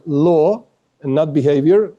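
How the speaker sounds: "law" set apart and leaned on, against "behavior"; stress on law. Real, not acted. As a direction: put firm weight on "law", contrasting it with "behavior". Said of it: "I stress this word".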